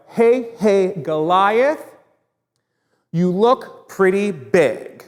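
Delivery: high, slow chant like hailing a giant; calling out to giant. Shown as a demonstration. Teacher calling up to the giant, slow chanted hail. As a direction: stretch it out as if shouting up to a giant. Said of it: "like we're yelling to our giant".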